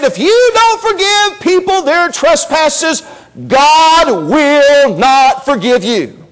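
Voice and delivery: slow, weighty "God will not forgive you"; solemn voice of Jesus. Retold or imitated. Preacher quoting Jesus to the congregation, slow and grave. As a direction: lay down the warning slowly and gravely. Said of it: "he said".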